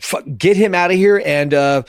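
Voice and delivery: rising mock shout, open fire stretched high and slow; mock order to fire. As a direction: bark the order like a panicked officer. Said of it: "Bloy is like".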